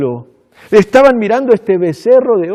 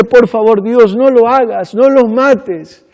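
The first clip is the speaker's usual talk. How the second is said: imploring plea; 4 semitones higher, 4 dB louder, slower than usual. Retold or imitated. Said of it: "Él implora a Dios".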